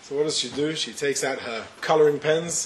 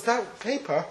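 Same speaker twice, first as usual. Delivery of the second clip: lightly voiced little girl, higher and hurt; a hint of a tearful little girl; upset little girl; 8 semitones higher than usual. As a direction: play the daughter accusing her brother. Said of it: "And the little girl says".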